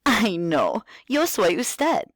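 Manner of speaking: high, bright singsong teacher voice; kindergarten teacher voice. Shown as a demonstration. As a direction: talk like you're greeting small kids. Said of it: "talk to them like you're a kindergarten teacher".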